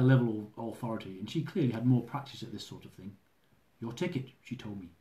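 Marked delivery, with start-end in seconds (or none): 3.8-4.3 calm. Acted. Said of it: "a much calmer voice".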